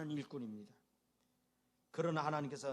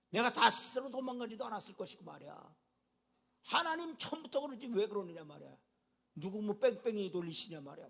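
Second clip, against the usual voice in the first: Jonah's protest; 4 semitones higher than usual. Acted. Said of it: "항변을 하는 거예요".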